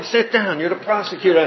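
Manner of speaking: high retold judge line with laughter; imitating the judge while laughing; amused courtroom correction.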